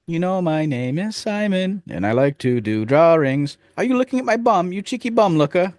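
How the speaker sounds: put-on high, childish British boy voice; squeaky schoolboy asking about his bum; Michael Myers as Simon. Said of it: "Simon? ... Michael Myers".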